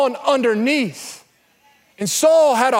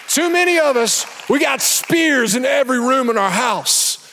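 shouted preaching. Real, not acted. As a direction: drive it home to the crowd. Preaching climax.

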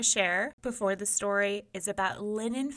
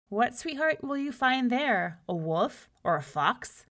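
louder, teasing taunt; mocking; 5 semitones higher, 5 dB louder than usual. A narrator's reading. Older brother taunts Miko about the forest, mocking. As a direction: taunt him with mock questions. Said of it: "his brother mocked".

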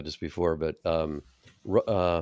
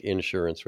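"insurance" stressed on IN; stress on first syllable; 4 dB quieter than usual. Shown as a demonstration. Showing the regional syllable shift, "insurance" stressed up front. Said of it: "just the syllable that gets accented".

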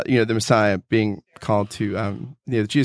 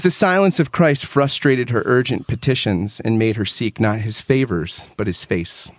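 measured, heartfelt book reading; reading a favorite book passage aloud to a co-host; earnest reading aloud. Acted. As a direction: read it like a treasured passage.

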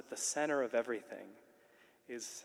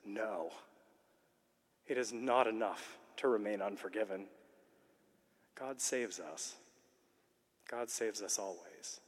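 pastoral reassurance. Retold or imitated. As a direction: ease his guilt gently, like a kind confessor. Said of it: "incredibly pastoral cardinal says".

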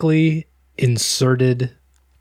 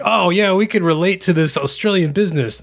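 higher-pitched imagined audience reaction; ad viewers; 6 semitones higher than usual. Retold or imitated. Imagining viewers reacting to a local ad, mock enthusiasm. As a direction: play keen viewers, pitched up. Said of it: "and they're like".

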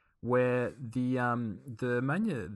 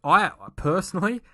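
laughing; 9 semitones higher, 9 dB louder than usual. Real, not acted. Laughing at cohost's joke.

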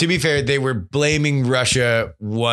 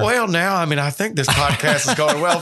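mock inner voice; 3 semitones higher than usual. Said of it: "every one of those last four voices".

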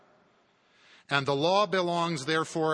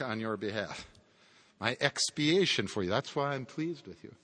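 Christ explaining; 2 semitones higher than usual. Acted. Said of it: "He sounds like this".

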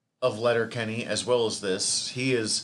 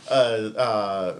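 hiccups; 3 semitones lower, 3 dB louder than usual. Real, not acted. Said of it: "has given me the hiccups".

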